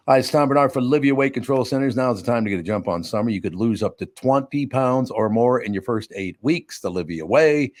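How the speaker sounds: lightly done radio ad read, a touch brisk. Acted. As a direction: pitch the sponsor like a friendly host. Reads sponsor ad.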